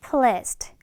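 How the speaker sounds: "pleased" with the final d only lightly touched; weak final d. Shown as a demonstration. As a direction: model "pleased" with a faint last d. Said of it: "이런 식으로 발음해주고요".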